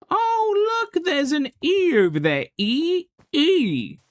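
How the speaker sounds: high, hammed-up excited shout of spotting something; mock excited Game Chap. Reenacting the Game Chap meme, hammed-up high excitement. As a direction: point and yell like you've spotted a giant E far off. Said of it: "For those who don't know what this is a reference of".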